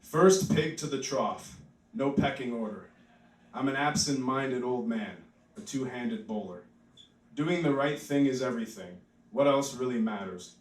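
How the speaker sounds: measured spoken-word reading; poem reading. Acted. Reads his poem.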